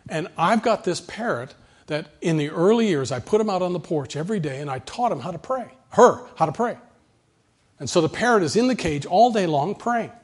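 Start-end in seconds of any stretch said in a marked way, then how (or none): 0.1-6.8 raised, lightly voiced churchgoing woman; a high, sweet old lady's voice; woman's voice. Pastor voices the woman telling him about her parrot, lightly high. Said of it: "a woman ... says".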